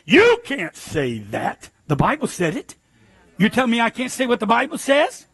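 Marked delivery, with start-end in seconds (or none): 0.1-1.7 mock scold. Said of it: "the P C police will be here".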